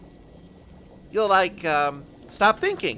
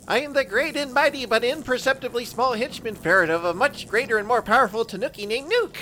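eager fast boast; 6 semitones higher than usual. Acted. Corrects self under pressure.

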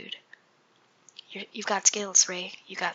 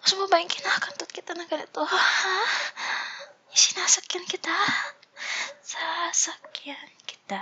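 seductive; 9 semitones higher than usual. Pretend. Reading lewd lines in character.

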